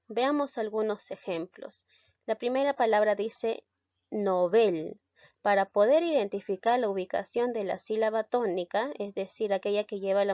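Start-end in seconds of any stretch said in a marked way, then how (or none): 4.1-5.0 "novel" stressed on BEL; stress on the last syllable. Shown as a demonstration. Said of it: "te vas a basar en mi pronunciación".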